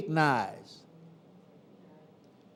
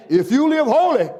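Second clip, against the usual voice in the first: louder, laughing "if you live holy"; higher, laughing retake of "holy"; 6 semitones higher, 7 dB louder than usual. Real, not acted. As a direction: repeat it through a laugh.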